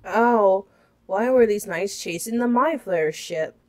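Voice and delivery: badly faked British accent; lightly mock-British reading of a question; failed British accent. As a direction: attempt British and miss. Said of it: "That's not British".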